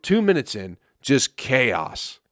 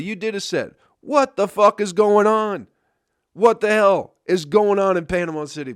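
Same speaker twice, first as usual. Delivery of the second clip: higher and louder, exasperated yelling; fed-up rant; 7 semitones higher, 5 dB louder than usual. Retold or imitated. Comic venting at the heckling crowd and comic, exasperated yelling. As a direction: vent like you've been heckled from every side.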